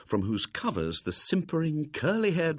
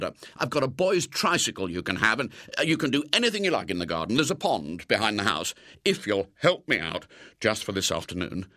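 anxious pleading; faster than usual. Acted. Frightened man begging William.

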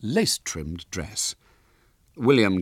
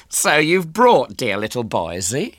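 higher, louder society mother; gushing hostess; 6 semitones higher, 7 dB louder than usual. A narrator's reading. Overdressed hostess greets her young guest, high and gushing. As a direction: gush loudly at a small guest. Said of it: "she began".

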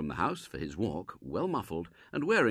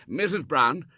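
put-on high, loud, pleading old Colonel; an old soldier begging pardon; remorseful Colonel; 7 semitones higher, 7 dB louder than usual. Colonel begging Robert's forgiveness, high and loud.

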